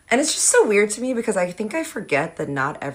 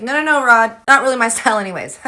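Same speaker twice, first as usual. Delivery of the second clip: laughing refusal; 6 semitones higher, 8 dB louder, faster than usual. Real, not acted. Declining while laughing.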